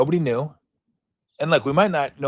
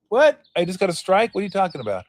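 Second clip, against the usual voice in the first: mock surprise; 5 semitones higher than usual. Batter shocked by strike call.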